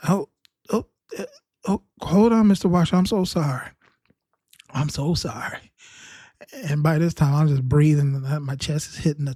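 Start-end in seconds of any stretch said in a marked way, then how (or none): 0.1-5.7 hammed-up crying apology, pitched up; mock sobbing. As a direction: fake a whiny sob while apologizing.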